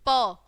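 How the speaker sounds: प as "puh", consonant plus short vowel; letter sound demo. Shown as a demonstration. Teacher showing children the sound of P, letter sound demo. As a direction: sound out प on its own. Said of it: "क्या sound बनेगी इसकी".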